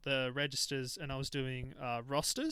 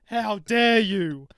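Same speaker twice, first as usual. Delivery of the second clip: even louder and slower repeat of the outrage; indignant outrage; 6 semitones higher, 11 dB louder, much slower than usual. Retold or imitated. Shop worker replaying the customer's outburst, louder and slower. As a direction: lean harder into the offended lady. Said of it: "and she goes".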